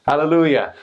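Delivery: church exclamation. Retold or imitated. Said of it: "Another thirty seconds".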